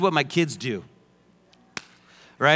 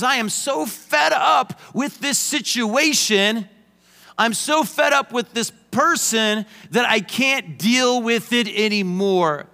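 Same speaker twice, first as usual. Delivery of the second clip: fed-up shout; 5 semitones higher than usual. Retold or imitated. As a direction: vent that you can't take it anymore. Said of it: "What that usually means is".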